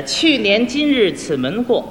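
slow, measured reading of opera lyrics; spoken verse, lightly drawn out; lyric recitation. Shown as a demonstration. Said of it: "您给念一念".

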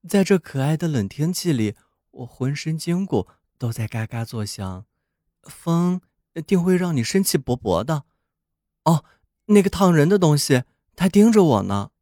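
a cheerful snowman bragging. Acted. Snowman speaks in the story.

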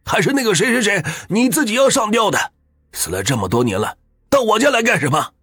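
put-on old man bellowing at ghosts to protect his wife; roaring, high-pitched tirade of rage; furious shout. A narrator's reading. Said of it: "对着空气大声地骂道".

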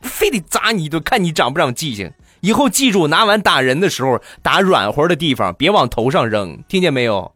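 mock motherly telling-off; imitated scolding mum. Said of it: "我妈在里边又大声地喊道".

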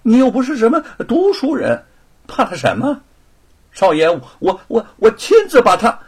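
loud, high, exasperated scolding; impatient anger. Acted. Young master scolding his timid servant, losing patience. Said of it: "罗庞不耐烦起来了".

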